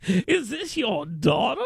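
slow, lightly voiced drawl of the question; a hint of the old Southerner; imitating Jim Ziegler. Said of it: "I was like".

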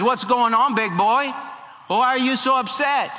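high-pitched, playful questioning of a sulking husband; Jezebel questioning. Acted. Jezebel walks in on her upset husband, questioning.

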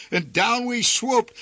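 ordinary delivery

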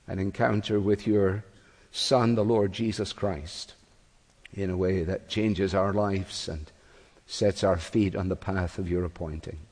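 measured, reverent prayer, slightly low; public prayer. Real, not acted. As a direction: address God in prayer, evenly and unhurried. Leads a prayer before preaching.

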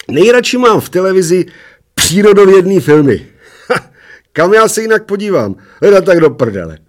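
put-on high, loud little old man holding forth. A narrator's reading. Little old man after a beer, high and loud. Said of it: "spokojeně si hříhnul a zahuhlal".

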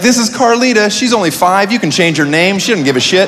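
high, upbeat adoption pitch; TV pet adoption host. Acted. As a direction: sell the kid like a shelter dog.

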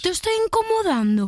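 high, torn-voiced complaint; rasping impression. Contestant copying the impersonator's line, rasping. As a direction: raise the voice and rough it up. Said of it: "Un poco más rasgado".

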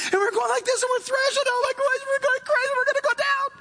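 high, frantic, like someone going under; frantic panic. Acted. Drowning man crying out in panic. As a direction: thrash about in a panic, voice up high.

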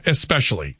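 "especially" as ess-PESH-uh-lee; correct pronunciation. Shown as a demonstration. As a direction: say "especially" with only an s. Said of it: "That's the way that's pronounced".

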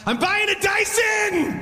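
high, slow triumphant shout; thrilled shout. Retold or imitated. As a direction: announce it like a jackpot win. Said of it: "I went".

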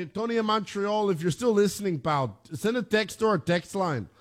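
put-on Canadian accent. Shown as a demonstration. Host calling on Montreal caller to judge, Canadian accent. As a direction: call out in a mock Canadian accent. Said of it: "how well I sound as a Canadian".

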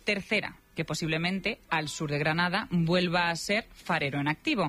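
lively, measured radio script read; radio presenter narration. Real, not acted. Presenter telling listeners the voices are alike, playful radio narration.

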